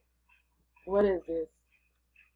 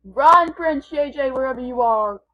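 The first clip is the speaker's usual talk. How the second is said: calling out; 7 dB louder than usual. Real, not acted. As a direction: shout his name so he hears. Calling out to friend in game.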